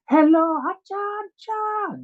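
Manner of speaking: high Indian dad on the phone; Asian accent. Acted. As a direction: answer a call in a high mock Indian accent. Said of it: "As you heard the Asian accent".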